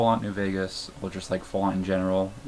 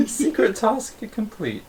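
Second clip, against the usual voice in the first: high, slow and laughing; 12 semitones higher, 5 dB louder, slower than usual. Real, not acted. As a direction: laugh through the words. Laughs and reads the task.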